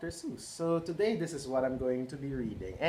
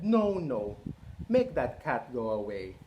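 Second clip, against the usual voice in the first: fish character. Acted. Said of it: "But our fish said".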